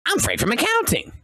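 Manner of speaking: high, squeaky put-on voice; bluffing goblin impostor. Disguised player bluffs the boss goblin, high put-on voice. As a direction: pipe up in a silly high character voice. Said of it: "And I'm just like".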